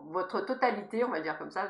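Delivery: slight lisp on the s sounds. Real, not acted. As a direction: speak with a light lisp. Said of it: "je zozote un peu".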